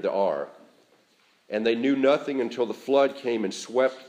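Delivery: measured, projected Gospel reading; scripture reading. Acted. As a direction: read it out formally to the congregation, phrase by phrase. Reads the Gospel passage aloud.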